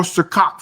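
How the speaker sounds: "Ciroc" said as "suh-KOCK"; mispronounced Ciroc. Real, not acted. Naming the vodka to his co-hosts, "Ciroc" mispronounced as suh-KOCK. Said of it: "He says Ciroc".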